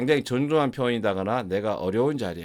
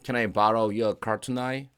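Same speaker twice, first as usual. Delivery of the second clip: slow demo; 3 dB louder, much slower than usual. Shown as a demonstration.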